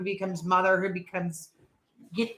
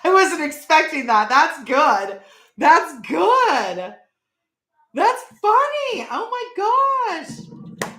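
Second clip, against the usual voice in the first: higher, slowed words through laughter; laughing; 8 semitones higher, 6 dB louder, much slower than usual. Real, not acted. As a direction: still giggling after the joke. Still laughing at joke.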